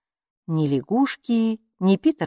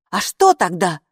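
lightly stern question, a little louder; 5 dB louder than usual. A narrator's reading. Hilla questions Kaapo about the creature, mildly stern. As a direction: ask it with a touch of severity. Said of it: "строго спросила Хилла".

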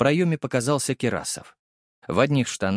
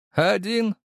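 sly villain; 10 semitones higher than usual. A narrator's reading. Villain voice, high.

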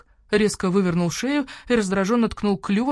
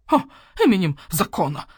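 mocking scoff; 5 dB louder than usual. Owl mocks the demand.

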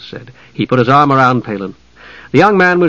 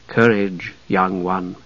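soft, hushed voice; near-whispered reassurance; 4 semitones lower, 6 dB quieter, slower than usual. A narrator's reading. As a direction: speak low and hushed, like a voice in the mind. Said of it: "came a whisper".

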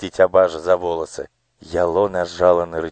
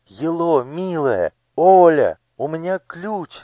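breathless; 10 semitones higher than usual. Acted. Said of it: "задыхаясь".

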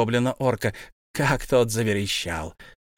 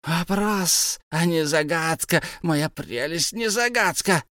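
high creature voice, quarrelsome; arguing Gollum; 6 semitones higher, slower than usual. A narrator's reading. Gollum argues with Bilbo over the riddle. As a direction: argue the point.

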